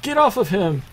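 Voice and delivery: high, alarmed cry; mock scream. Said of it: "is screaming".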